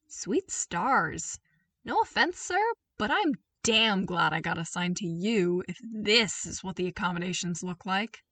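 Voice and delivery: gruff amazed grin; impressed trooper. Acted. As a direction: soldier delighted by the suite.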